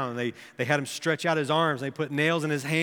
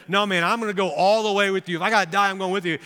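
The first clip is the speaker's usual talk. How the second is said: emphatic, raised-pitch pledge; insistent; 4 semitones higher, 4 dB louder, faster than usual. Retold or imitated. Peter pledges to go all the way, insistent. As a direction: quote a disciple insisting on his loyalty. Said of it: "But Peter kept insisting".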